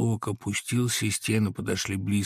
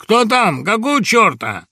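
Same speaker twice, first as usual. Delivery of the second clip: high, loud startled yell; startled shout from bed; alarmed shout; 11 semitones higher, 10 dB louder than usual. A narrator's reading. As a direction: bark it, woken up. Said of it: "тревожный окрик".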